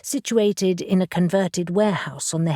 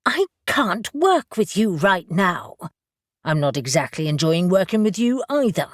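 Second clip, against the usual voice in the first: furious. Acted. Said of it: "eyes sparkling with fury".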